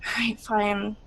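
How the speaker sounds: grudging, half-hearted agreement; mildly sulky teenager; reluctant teen. Acted. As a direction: shrug it off like a bored teen. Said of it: "She's like".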